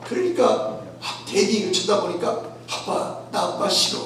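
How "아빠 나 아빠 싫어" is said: hammed-up child's whining; a child's mock tantrum; mock crying child. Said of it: "막 울고 불고".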